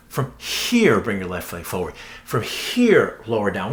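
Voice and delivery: "From here" lifted, then dropping low into the cue; repeated from here. Shown as a demonstration. Yoga teacher demoing the tic for trainees, "here" stressed. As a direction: stress the repeated "From here" each time like a habit. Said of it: "Another one is here".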